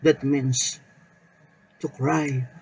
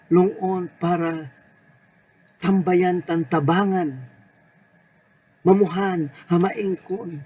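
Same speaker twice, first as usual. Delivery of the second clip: fervent lament; 4 semitones higher than usual. Acted. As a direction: pour out the burden like a desperate prayer. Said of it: "panawagan na marubdob ang damdamin". (marubdob na panaghoy sa Panginoon)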